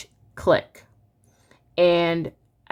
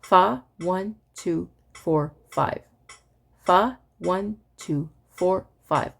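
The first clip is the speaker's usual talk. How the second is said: evenly spaced counting, a bit quicker; faster metronome recitation; slower than usual. Shown as a demonstration. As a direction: chant in time with a faster click. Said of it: "Here is one oh five".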